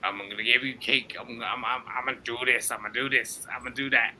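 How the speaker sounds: low mumbling New York mobster; Godfather impression. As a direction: mumble it like a mafia boss. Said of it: "I can't even do his voice".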